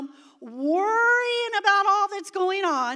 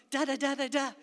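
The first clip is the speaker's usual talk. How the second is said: put-on baby tongues; 3 semitones lower, faster than usual. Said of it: "I started going".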